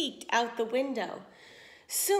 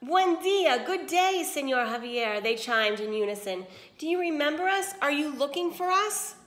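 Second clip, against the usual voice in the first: higher, louder silly greeting; giggling sisters; 4 semitones higher, 4 dB louder than usual. Acted. Sisters flirt foolishly with the prince, higher and giddy. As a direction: simper at the prince. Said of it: "giggling foolishly".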